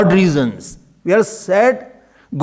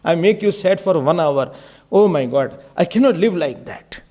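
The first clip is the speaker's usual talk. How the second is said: acted remorseful prayer, lower in pitch; tearful apology; 6 semitones lower than usual. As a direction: plead sorrowfully with God, without real sobs. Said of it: "if I can cry and say".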